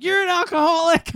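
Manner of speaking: high, mocking scold of the parents. Parents scolding their drunk son, high mocking voice. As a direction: squeak it out like shocked parents.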